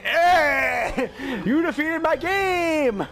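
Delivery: lightly voiced monster taunt, drawn out; mock boss challenge with stretched words; Godzilla challenge. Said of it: "Half expect Godzilla to fucking tear".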